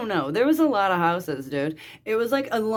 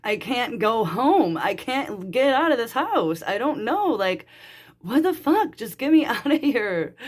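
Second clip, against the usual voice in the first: retold desperate plea; 2 semitones higher than usual. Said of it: "I just started sobbing".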